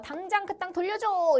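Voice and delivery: imitated insistent order; acted demand. Acting out powers demanding land back.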